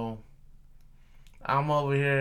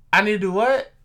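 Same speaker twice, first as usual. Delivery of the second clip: incredulous; 7 semitones higher, 9 dB louder than usual. Retold or imitated. Retelling incredulous reply to order.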